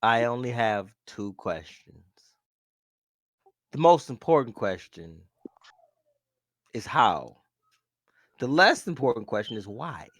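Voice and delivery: low, measured disappointed father; disappointed dad voice. Acted. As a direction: speak like a let-down dad. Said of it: "you really put on your disappointed dad voice".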